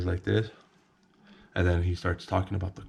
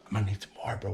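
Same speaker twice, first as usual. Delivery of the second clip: softened, hushed retold whisper; 6 dB quieter, much faster than usual. Friend at the blinds begging for more, whispering. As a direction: say it under your breath, furtively. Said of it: "whispering at me".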